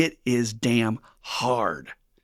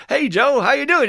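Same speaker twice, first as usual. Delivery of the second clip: much higher, loud hearty hello; cheery greeting; 9 dB louder than usual. Retold or imitated. Old-timer greets angry Joe at the door, hearty. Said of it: "guy sees him and says".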